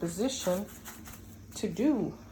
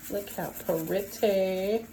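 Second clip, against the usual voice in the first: delighted drawn-out praise; admiring; 2 semitones higher, slower than usual. Real, not acted. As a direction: gush over the color. Admiring the color.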